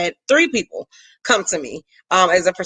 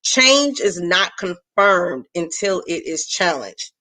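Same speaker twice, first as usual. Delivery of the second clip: each word laid out slowly for emphasis; slow it down so the point sinks in; slow and deliberate; 2 semitones lower, slower than usual. Shown as a demonstration. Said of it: "we are talking about change this morning".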